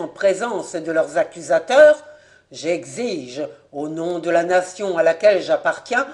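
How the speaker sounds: an aviator's mounting indignation; indignant protest. Acted. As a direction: demand justice in the name of France. Voirin protests the accusation.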